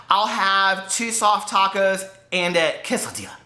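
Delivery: put-on slow order with a touch of Latino accent; mock Latino accent. Ordering at Taco Bell, lightly put-on Latino accent. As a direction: lightly imitate a Latino accent, mainly on "quesadilla". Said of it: "with this Latino accent".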